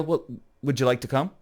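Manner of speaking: offhand, half-hearted imitation of an invite; afterthought invitation. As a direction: toss the question in late, without eagerness. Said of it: "she says that at the end".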